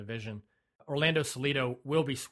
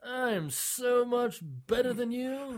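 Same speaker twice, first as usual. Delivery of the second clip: put-on cocky, high Spanish-accented boast; hammed-up arrogant Spanish accent; mock Spanish accent; 11 semitones higher, much slower than usual. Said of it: "But in a, in a Spanish accent".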